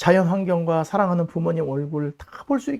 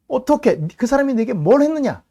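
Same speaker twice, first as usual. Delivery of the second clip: urgent, higher and louder question; hurried demand; 7 semitones higher, 5 dB louder than usual. Retold or imitated. Pharisees hurriedly question the healed blind man, urgent. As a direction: press him anxiously for an answer. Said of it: "이제 급해진 거예요".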